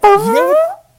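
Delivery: high, loud, hammed-up British accent; shrieking silly British accent; bad British accent. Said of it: "we're equally bad at accents".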